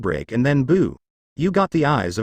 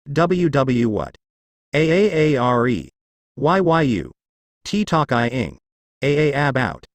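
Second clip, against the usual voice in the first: shaken while talking. Acted. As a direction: choke out words while being shaken. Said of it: "choke while shake him".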